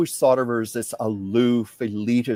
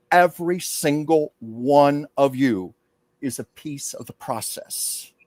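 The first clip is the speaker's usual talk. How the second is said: channeled public speech. Acted. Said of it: "she went into public mode".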